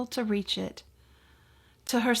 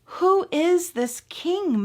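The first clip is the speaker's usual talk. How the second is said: mouse voice; 7 semitones higher, slower than usual. Acted. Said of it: "Mother Mouse asked".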